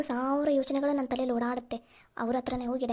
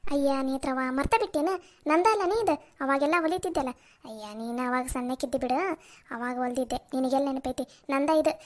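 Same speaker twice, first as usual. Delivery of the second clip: village aunt. Acted. Aunt telling Netra about her old sewing machine, homely and proud.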